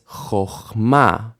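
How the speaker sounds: CHOCHMA with an oh in the first syllable, stress on MA; O vowel. Shown as a demonstration. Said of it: "It actually says".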